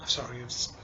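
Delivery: tearful, halting words between sighs; choked up, apologising while crying; real crying. Real, not acted. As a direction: speak through real tears at the father's funeral memory. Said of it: "I'm actually crying over here".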